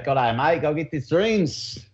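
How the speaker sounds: slow, hammed-up Australian accent, pitch rising at the end; a tourist's try at an Australian greeting; half-joking Australian accent, testing whether he got it right; mock Australian accent. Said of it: "Did I say that right?".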